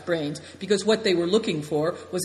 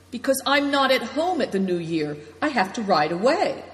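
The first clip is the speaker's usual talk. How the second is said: a higher, louder storyteller voice for Naidong; lightly voiced host; 6 semitones higher, 3 dB louder than usual. A narrator's reading. Naidong explains to his guests, lightly voiced. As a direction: let the host confide, pitched up.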